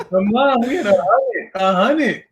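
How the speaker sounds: excited. Retold or imitated. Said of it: "I'm like".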